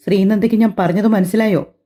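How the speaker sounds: a touch of harsh demand; stern question. Acted. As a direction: press her for an answer, firmly. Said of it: "Atharv കടുപ്പിച്ച് ചോദിച്ചതും". (കടുപ്പിച്ചുള്ള ചോദ്യം)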